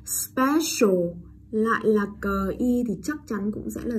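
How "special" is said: Special raised in pitch, with a clear long sh. Shown as a demonstration. Teacher gives next example, Special with long sh. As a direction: mark the SH in "Special". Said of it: "sh dài nhá".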